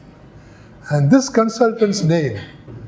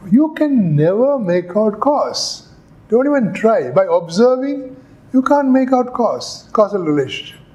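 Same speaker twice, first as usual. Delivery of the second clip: higher, insistent dismissal; emphatic Hume; 4 semitones higher than usual. Acted. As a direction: slam the door on the idea. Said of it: "so this fellow said".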